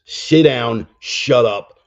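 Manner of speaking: loud, barked orders from God; stern God's command. Retold or imitated. God scolding a hard-headed man, loud and stern. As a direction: boom it out like a fed-up father. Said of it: "God gives us a rap upside the head and goes".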